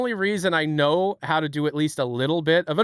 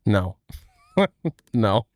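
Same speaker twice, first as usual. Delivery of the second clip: ordinary delivery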